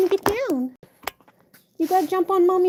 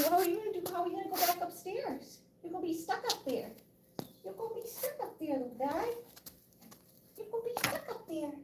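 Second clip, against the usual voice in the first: much softer, almost a whisper to the cat; hushed coaxing; 3 semitones higher, 14 dB quieter than usual. Real, not acted. Owner quietly teasing her stuck cat, much softer. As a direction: murmur up at him gently.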